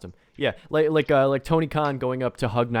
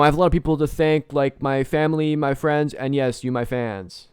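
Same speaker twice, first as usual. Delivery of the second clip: slightly louder, faster mock speech; Kurt Angle thank-you; 3 semitones higher, 3 dB louder than usual. Imitating Kurt Angle thanking the crowd, mock-grand. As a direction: ham up the grateful champion. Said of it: "Kurt Angle coming out and saying".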